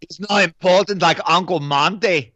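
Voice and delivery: put-on German accent. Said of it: "Marcus Nispel is German".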